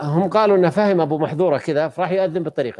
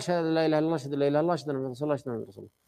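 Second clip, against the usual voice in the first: imitating a secret recitation, dropping nearly to nothing; quietly recited; 5 dB quieter, much faster than usual. Teacher acts the Prophet quietly teaching the testimony, fading to hushed. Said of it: "ثم رجع يقول بصوت مرتفع".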